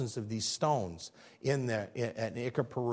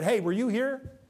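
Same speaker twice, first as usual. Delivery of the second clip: God answering Job; 6 semitones higher, 3 dB louder than usual. Acted. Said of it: "So God answers him, said".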